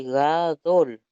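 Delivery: "gadol" said very slowly as ga-DOL, stress on the last syllable; teacher reads "gadol" slowly from the transliteration; careful pronunciation. Shown as a demonstration. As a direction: read "gadol" slowly so students hear both syllables. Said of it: "en la transliteración del medio, dice".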